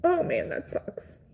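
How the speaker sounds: high, slow, voiceless tearful sympathy; crying. Real, not acted. Streamer consoling a bereaved stranger, crying. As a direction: let it out slowly on a high, airy cry. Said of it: "I'm already crying".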